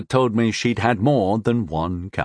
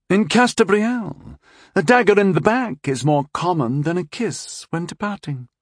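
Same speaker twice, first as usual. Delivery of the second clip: boasting; 8 semitones higher than usual. Acted. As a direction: brag a little about the court. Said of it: "almost boasting".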